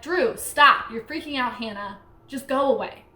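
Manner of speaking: retold angry order, punching STOP; mildly heated telling-off with punched commands. Sister ordering her brother to go away, angry. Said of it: "started to get really angry".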